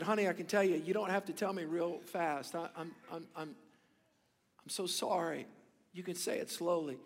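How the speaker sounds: a father gently slowing down for his daughter; gentle dad. Retold or imitated. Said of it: "he answered, said".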